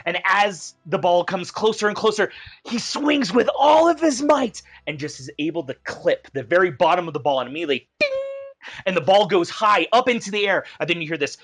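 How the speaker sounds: rising excitement as the ball flies; scene narration. Acted. Game master narrates the boy's swing to the player, building excitement.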